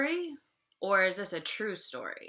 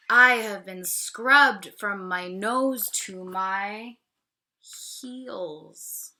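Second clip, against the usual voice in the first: lightly voiced pig; 7 dB louder, slower than usual. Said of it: "the pig squeals".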